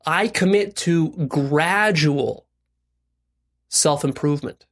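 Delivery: very slow, phrase-by-phrase pledge; deliberate recitation. Shown as a demonstration. Coach modelling a commitment for listeners, deliberate recitation.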